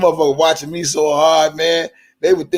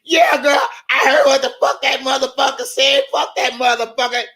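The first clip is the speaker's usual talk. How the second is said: Angie Walker; 9 semitones higher than usual. Retold or imitated. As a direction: answer like the outraged friend. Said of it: "I can hear Angie Walker on the respond".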